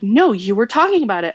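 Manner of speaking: mock insistence, hit the first word; insistent. Young son contradicting a parent, mildly insistent. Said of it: "he insisted".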